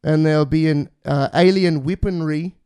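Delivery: put-on New Zealand accent, lightly done; a try at a Kiwi accent. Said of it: "I'm trying to do a Kiwi accent there".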